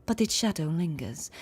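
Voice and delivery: lightly imitated deep, gentle voice; a hint of floaty, gentle gravity; Hiyuki. Shown as a demonstration. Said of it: "She's got a very deep sort of".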